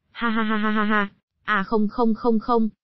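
wild mocking cackle; mad laughter. A narrator's reading. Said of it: "một bên cười như điên".

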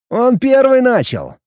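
loud, slow mock protest; shout. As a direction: cry it out high. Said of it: "успеть крикнуть".

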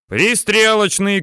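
high, slow, drawn-out callout; shouted down. A narrator's reading. Tankman relaying shell type down into tank, drawn-out shout. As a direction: shout the order down, stretching it. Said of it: "кричит вниз танкист Алексеич".

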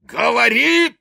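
high, loud barked order; a priest demanding a confession, shouting high and loud; commanding shout. Acted. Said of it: "приказывал отец Фёдор".

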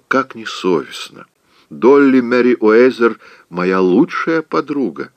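high, fluttery scolding aunt; a flustered old aunt clucking in disbelief; fussy Aunt Pitty. Acted. Aunt scolds Scarlett for waving from her window, fluttery high.

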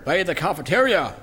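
normal talking voice

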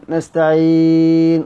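نستعين ending with lips rounded after the final n; ishmam. Shown as a demonstration. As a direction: close on نستعين then round the lips silently. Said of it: "وتضم الشفتين بعدها". (نستعين بالإشمام)

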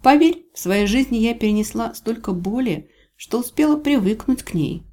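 high-pitched, challenging heroine; proud captive claiming she can take it; defiant heroine. Acted. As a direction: scoff at the threat, pitched well up.

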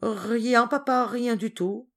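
put-on mildly rattled, caught-out child; flustered. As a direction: deny it nervously to your father. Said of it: "Georges troublé".

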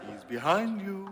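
hushed panto heckle from the wings; panto crowd callback. Pretend. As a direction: call it out like a panto audience. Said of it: "pantomime-style dialogue exchanges".

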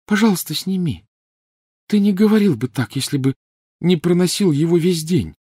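plead, voice thin with worry. A narrator's reading. Hermione pleading with Ron, thin high voice. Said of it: "непривычно тонким голосом".

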